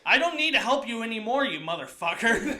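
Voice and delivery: mock outrage tipping into a laugh; indignant refusal. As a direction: raise your voice, fed up but amused.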